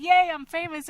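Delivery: loud, high mock cheer; mock glee. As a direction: imitate someone giddy with new fame. Mimics newly famous people's glee.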